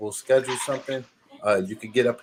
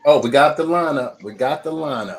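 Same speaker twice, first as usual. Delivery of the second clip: excited; 6 semitones higher, 8 dB louder than usual. Real, not acted. Excited at finding the lineup.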